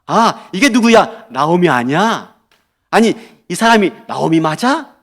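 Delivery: delighted disbelief on recognizing someone; surprised welcome. Shown as a demonstration. Townswomen recognizing returned Naomi, surprised and welcoming. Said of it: "놀라면서 반갑게 대하는 태도".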